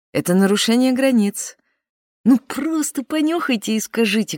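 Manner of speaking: ordinary talk, nothing marked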